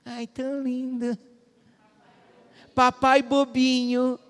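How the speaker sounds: mock sweet child voice, drawn out; mocking cartoon child. Preacher mocks cartoon child teasing dad in sweet voice. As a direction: hams up a teasing cartoon kid. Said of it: "a criança não falava assim pro papai".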